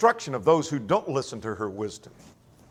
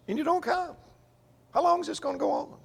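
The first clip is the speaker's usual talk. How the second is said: high, soft, fast lament; lamenting Wisdom; 13 semitones higher, 6 dB quieter, faster than usual. Acted. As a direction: sigh it out as a woman ignored. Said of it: "So she laments their failure to listen".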